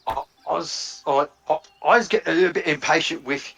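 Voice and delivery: a hint of irritated Slag pressing for the park; impatient Slag. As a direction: demand the way, patience running out. Slag loses patience with statue.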